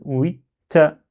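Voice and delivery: "huit ta" in one go, held on the t; slowly block on the t of "huit" before releasing "ta"; "wit-ta" as one word with a doubled t; doubled t joined. Shown as a demonstration. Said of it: "en un seul coup".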